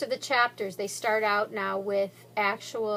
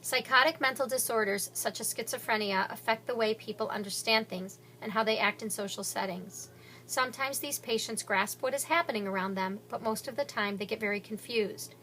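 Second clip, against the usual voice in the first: clinical notes read. Shown as a demonstration. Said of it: "giving information about Zach's condition".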